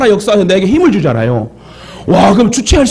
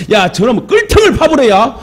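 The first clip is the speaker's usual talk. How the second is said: imitated Jeolla elder's dialect, higher pitch; 4 semitones higher than usual. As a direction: lightly imitate old-time Jeolla village talk. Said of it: "전라도 말로 예전에 어른들이 그래". (전라도 사투리 어른 흉내)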